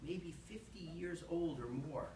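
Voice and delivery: deliberate, measured poetry recital; poem reading. Acted. Poet reading a lobster shack poem to an audience, measured recital. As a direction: read it out phrase by phrase, lifting key words.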